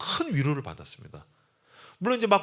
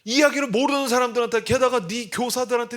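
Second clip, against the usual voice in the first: exasperated inner voice; 9 semitones higher, 5 dB louder than usual. Retold or imitated. Inner voice scolding himself.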